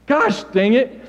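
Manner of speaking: real laugh through the words; laughing at himself. Real, not acted. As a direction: laugh off the slip.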